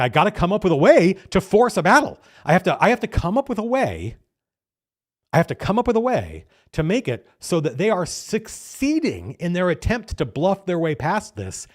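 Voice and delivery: mock panic of a scheming game master; frantic inner thoughts. Game master scrambling to force a battle, frantic.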